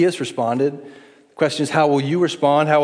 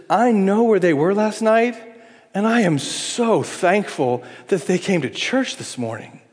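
higher, glad and welcoming; sincere thankful tone; grateful; 6 semitones higher than usual. Retold or imitated. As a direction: rejoice that they came.

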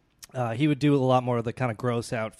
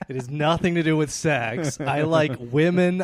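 indignant; 3 semitones higher, 5 dB louder than usual. Acted. Acted cannibal defending himself.

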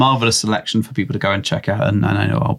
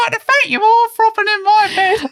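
high falsetto woman voice; Python lady voice. Acted. Mocking version of the thank-you.

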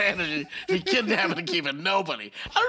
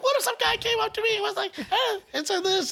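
imitating wife; 14 semitones higher than usual. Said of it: "So she's like".

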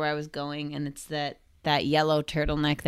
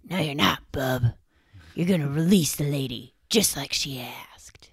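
Wolverine voice. Pretend. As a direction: growl it like Wolverine, tough and gruff. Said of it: "let me get into my Wolverine voice".

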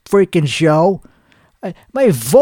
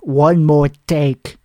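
mock producer mutter; 5 semitones lower, slower than usual. Mimicking producer, low slow.

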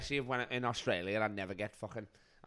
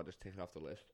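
whispered aside; 4 semitones lower, 13 dB quieter than usual. Real, not acted.

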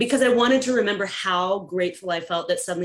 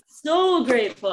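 tag; 5 semitones higher, 4 dB louder, slower than usual. Retold or imitated. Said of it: "and I was crying".

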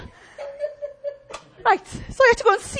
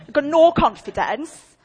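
drawn-out, mocking whine with a laugh; slow mock whine; 5 dB louder than usual. Preacher mocking the client's claim, slow and laughing. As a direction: stretch it out like a sulky girl. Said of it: "Like that, doing all of that".

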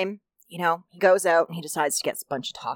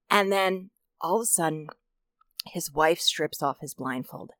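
whisper; 2 semitones lower, 6 dB quieter than usual. Real, not acted. Storyteller builds suspense.

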